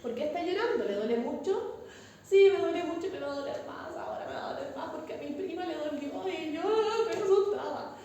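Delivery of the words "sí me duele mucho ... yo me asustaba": mock-tearful singsong of a scared patient; whiny patient. Teacher imitating a scared crying patient, whiny singsong. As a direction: whine it like a frightened patient near tears.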